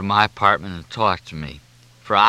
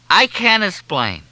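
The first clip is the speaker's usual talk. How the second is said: much higher, louder, slow whine; tearful wail; 11 semitones higher, 5 dB louder, slower than usual. A narrator's reading. Junior in tears insists to Fletcher, wailing. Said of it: "no whining voice, no quivering".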